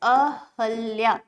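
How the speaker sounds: अहल्या said slowly and deliberately; slow dictation. Shown as a demonstration. Teacher gives students the correct form, slowly. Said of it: "अहिल्या का सही रूप क्या है".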